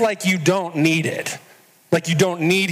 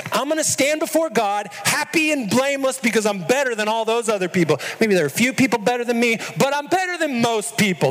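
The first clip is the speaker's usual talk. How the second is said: smug self-talk; 6 semitones higher, faster than usual. Retold or imitated. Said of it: "We're wired to think it is".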